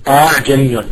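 "أأعجمي" with the second hamza halfway between hamza and h; no full stop on the second hamza in "أأعجمي"; softened second hamza. Shown as a demonstration. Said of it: "يعني بين الهمزة والهاء".

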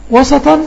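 وسطًا said loud and spelled out as wa-sa-tan with a rise; teacher drilling وسطًا; clear teaching of a word. Shown as a demonstration. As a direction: articulate وسطًا loudly, syllable by syllable. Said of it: "فهمنا يعني إيه وسطًا؟".

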